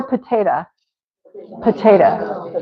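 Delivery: "potato" as puh-TAY-duh; casual reduced ending. Shown as a demonstration. Teacher offers another option, potato with casual ending. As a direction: weaken the final O of potato to uh. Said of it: "Or potato".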